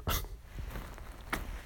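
small, breathy laugh; hushed little laugh; soft chuckle. Acted. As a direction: let out a quiet, airy laugh. Affectionate joke to partner.

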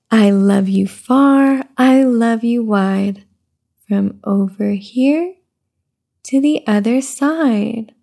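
slow sing-song read-aloud; reading to baby. Acted. Mother reading a rhyming book to her baby, slow sing-song. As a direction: lilt the rhyme gently for the baby.

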